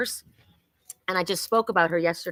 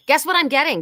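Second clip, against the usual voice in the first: higher, louder, playful tease; excited tease; 6 semitones higher, 5 dB louder than usual. Real, not acted. Reader teasing viewers about a new book, high and loud. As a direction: dangle the news, bright and eager.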